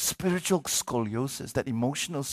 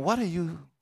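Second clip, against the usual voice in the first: puzzled onlookers; 7 semitones higher than usual. Retold or imitated. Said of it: "everybody's wondering".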